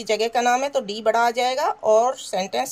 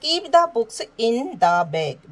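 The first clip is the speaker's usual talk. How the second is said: ordinary talk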